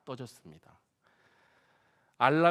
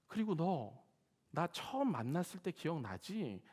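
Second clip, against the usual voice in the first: slow, gentle reassurance to a weary son; comforting voice; 2 semitones higher than usual. Retold or imitated. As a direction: speak like a tender father consoling. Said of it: "위로하듯 이런 목소리가 들리는 거예요". (지친 목사를 위로하는 다정한 목소리)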